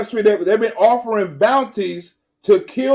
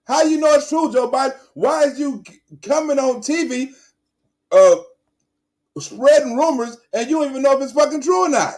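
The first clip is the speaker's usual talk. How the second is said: indignant rant; 5 semitones higher than usual. Real, not acted. Ranting at Biden on TV.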